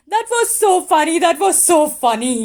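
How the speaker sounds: loud, high, giggly delight; laughing out loud. A narrator's reading. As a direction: squeal it through laughter. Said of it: "rolled over laughing".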